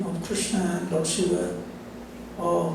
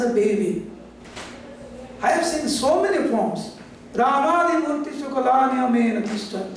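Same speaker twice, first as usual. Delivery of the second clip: mild tearful pleading; 5 semitones higher than usual. Acted. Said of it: "crying, praying".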